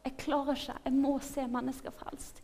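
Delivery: restrained re-enactment of desperate prayer; retold cry to God. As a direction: plead as if calling out to God. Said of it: "Og jeg ropte til Gud".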